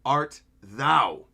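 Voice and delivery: very slow, otherworldly ancient-being voice; Imu's voice. Acted. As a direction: draw each word out like a cold god. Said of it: "as Imu says".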